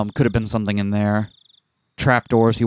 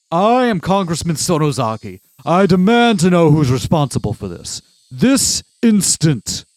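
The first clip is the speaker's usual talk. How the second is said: put-on intense old man voice; 6 semitones higher, 4 dB louder than usual. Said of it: "I'm doing an old man voice, but very intense".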